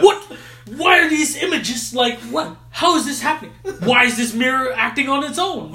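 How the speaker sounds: giggling mock alarm; laughing panic. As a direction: play the lost ancient, cracking up. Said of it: "mocking a confused caveman at a TV".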